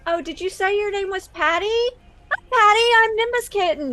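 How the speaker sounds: lightly voiced streamer greeting; sweet online star. Streamer greeting a young fan by name, lightly gushing.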